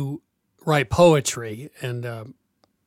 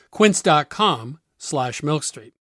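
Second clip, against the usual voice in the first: slow tagline; 3 dB louder, slower than usual. Shown as a demonstration. Closing tagline of the ad.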